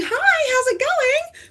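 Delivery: high, slow sing-song hello; high cheery hello to someone on the street; bright greeting to a stranger. Retold or imitated. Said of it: "So when you're going".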